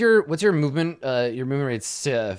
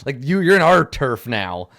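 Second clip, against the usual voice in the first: slightly louder, drawn-out taunt from the pack; lightly acted show of dominance; mock domineering baboons; 5 dB louder, slower than usual. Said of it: "they just shriek louder altogether".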